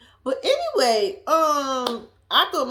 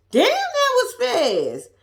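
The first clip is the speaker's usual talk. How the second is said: loud slow disbelief; 12 semitones higher, 5 dB louder, slower than usual. Real, not acted. Derek dropped Monique quickly.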